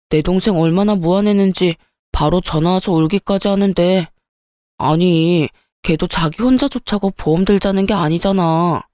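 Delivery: hint of a husband excusing his sister; dismissive husband.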